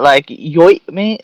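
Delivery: British accent. Shown as a demonstration. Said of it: "I do a great British accent".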